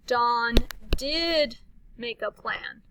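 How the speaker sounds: slow, stress on did; emphatic. Shown as a demonstration. Teacher turning a question into an exclamation, emphatic. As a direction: lean into did. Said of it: "we'd have an exclamation mark".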